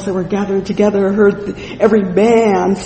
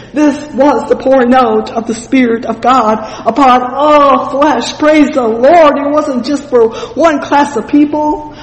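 loud, higher, rolling preacher's delivery; fervent preaching; 5 semitones higher, 4 dB louder than usual. Acted. Preacher telling of noisy praise at Pentecost, fervent preaching. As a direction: proclaim it with swelling emphasis.

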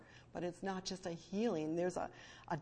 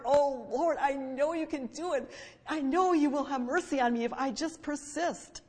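raised, higher voice of insistent prayer; fervent plea; 5 semitones higher, 6 dB louder than usual. Acted. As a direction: plead out loud, refusing to give up. Voicing the woman's persistent prayer.

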